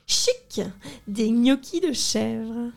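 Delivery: delighted exclaim. Acted. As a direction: squeal with glee. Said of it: "s'écrie l'enfant tout content".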